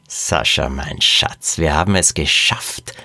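low-pitched triumphant cooing; delighted, low and intimate; gloating jubilation. Acted. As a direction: purr the victory to a sweetheart. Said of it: "jubelte Frau Qualle".

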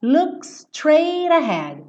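quick high "Look straight ahead"; imitating the singer. Teacher imitating the singer's quick part for students. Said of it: "Essa parte rápida que ele fala".

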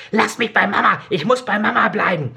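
put-on high pleading cry of a child; shrieking boy. Boy clinging to his mother, high desperate cry. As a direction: beg to stay with his dead mother. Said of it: "kreischte der Junge".

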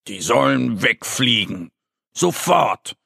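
mildly angry, rising on the last word; a hint of a sulky cub's order; understated grumpy insistence; cross demand. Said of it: "sagt Mo mit bösem Blick".

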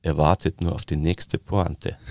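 slow Viennese, waiting for the punchline; knowing Viennese drawl; sly Viennese. Shown as a demonstration. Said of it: "das kommt hintersinnig".

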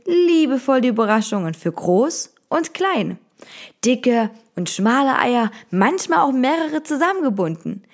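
storybook voice; story narration. A narrator's reading. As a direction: read it like a bedtime tale. Reads Easter bedtime story.

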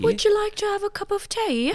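high-pitched British accent put on; posh British English accent tea offer. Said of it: "Ich liebe ihren britischen Akzent".

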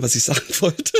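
laughing at herself, trailing off. Real, not acted. Forgot what she wanted to say.

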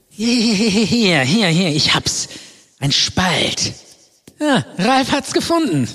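loud, high, thrilled calling out; excited shouting. Acted. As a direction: shout it like you struck gold. Finds the hidden crack.

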